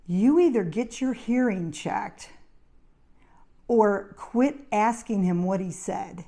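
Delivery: measured, insistent telling-off; retold firm ultimatum.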